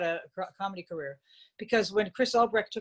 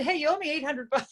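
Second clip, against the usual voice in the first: chuckling through a lightly voiced boss line; laughing quote of Chris Albrecht; 6 semitones higher than usual. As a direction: laugh as you hand him the punchline. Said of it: "He said".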